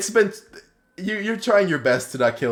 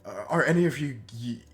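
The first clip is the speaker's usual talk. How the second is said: concerned priest; 4 semitones higher, faster than usual. Acted. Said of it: "and he says".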